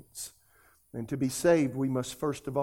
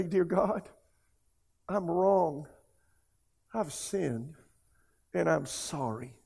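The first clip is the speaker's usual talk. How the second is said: leading a prayer; slower than usual. Real, not acted. Leads viewers in prayer aloud.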